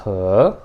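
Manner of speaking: he starting low and climbing; rising-tone he. Shown as a demonstration. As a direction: begin he at the bottom and slide up. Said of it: "você começa embaixo e você vai subindo".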